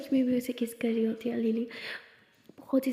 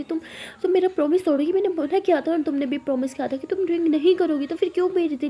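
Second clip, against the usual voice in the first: raised, louder voice, scolding hard; angry scolding; 5 semitones higher, 4 dB louder than usual. Acted. Lakshmi scolding Lily for drinking, angry raised voice. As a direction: tell her off for breaking a promise. Girlfriend scolds for breaking promise.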